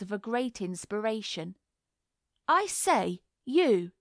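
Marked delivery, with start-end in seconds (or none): 2.5-3.9 louder, talking through food; mouth full. A narrator's reading. Boy at tea blurts with mouth full. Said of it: "with his mouth very full".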